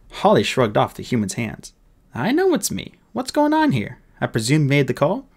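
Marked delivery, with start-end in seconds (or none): 2.1-5.3 high, impatient fairy officer; fairy captain. Acted. Fairy officer demanding answers from the boy, high and impatient. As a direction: pitch it up, brisk and demanding.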